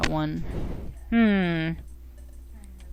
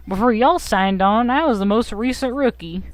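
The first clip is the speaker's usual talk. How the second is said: put-on an eager rookie in Lucas's accent, barely shifted. Bidoof greets the new recruits in Lucas's accent. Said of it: "He can have Lucas's accent".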